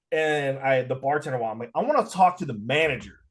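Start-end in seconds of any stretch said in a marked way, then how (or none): 1.7-3.2 firm, restrained complaint; mildly annoyed demand; retold annoyance. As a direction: ask for the manager with a touch of irritation. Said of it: "Like, I'm pissed".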